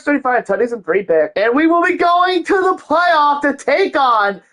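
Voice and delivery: big ceremonial announcer delivery; hyped announcer. Acted. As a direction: announce it to a packed arena, pitch lifting on the key news. Announces award winner and playoff opponent.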